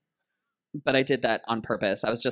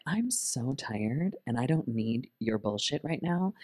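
deadpan tired look; 4 dB quieter, slower than usual. Retold or imitated. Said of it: "that look like".

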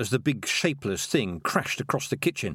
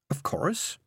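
whisper; 9 semitones higher than usual. A narrator's reading. Tiffany answers, whispered.

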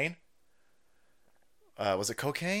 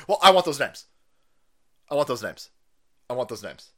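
fading demand; 3 semitones lower, faster than usual. Acted. Repeated demand, fading each time.

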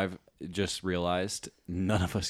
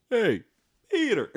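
loud, high cartoon call; Joe Swanson; 5 dB louder than usual. Co-host doing the only line they know, loud Joe Swanson call. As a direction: shout it like a cartoon neighbour. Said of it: "I can only say one thing".

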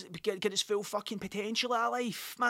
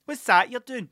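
high, put-on admiring voice; comic couple voice; 7 semitones higher, 6 dB louder, slower than usual. Older couple admiring the guy's rubber duck, comic voice. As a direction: exaggerate an impressed couple, pitched right up. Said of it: "I'm just doing that voice for fucking".

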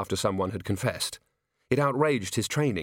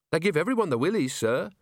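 lightly voiced, agreeable young officer; a hint of keen explaining; earnest officer; 3 semitones higher than usual. Officer agrees golems unsettle people, earnest.

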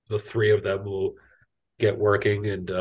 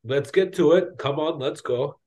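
lightly voiced crewmate, starting higher; rally them in character, pitched up at first; Seth; 5 semitones higher than usual. GM as crewmate urging work to start, lightly raised character voice. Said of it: "he'll be like".

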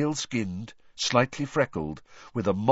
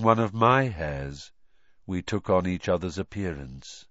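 flat expressionless voice. Acted. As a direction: recite it with no feeling. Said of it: "speak in a flat, expressionless voice".

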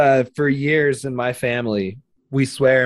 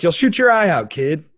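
mock Santa voice; 5 semitones higher than usual. Santa quote.

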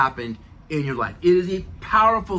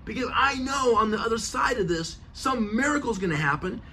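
higher, eager confident excitement; excited faith; 5 semitones higher than usual. Retold or imitated. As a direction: sound sure a miracle is coming. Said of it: "He goes".

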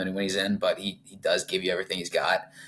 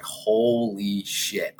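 very slow, drawn-out amazement; stunned; much slower than usual. Retold or imitated. Fan learning of a second late goal, stunned. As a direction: stretch each word in stunned disbelief.

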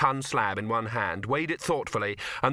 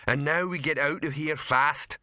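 slow, higher troll voice; troll leader; 4 semitones higher than usual. Acted. Rock warning of a failing ceiling, slow troll urgency. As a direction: urge them out in slow troll speech.

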